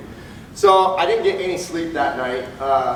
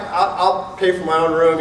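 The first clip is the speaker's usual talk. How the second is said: mock huffy laughing. Laughs at declined card.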